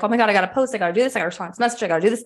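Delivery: a hurried, frantic rattle through the to-do list; frantic rush. Retold or imitated. Coach retelling her past business panic to viewers, mock frantic. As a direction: imitate your old overwhelmed self, rushing. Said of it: "be frantic and be like".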